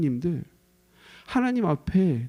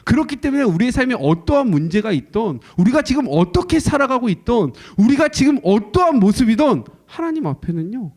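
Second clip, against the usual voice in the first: preaching climax; 6 semitones higher, 5 dB louder than usual. Real, not acted.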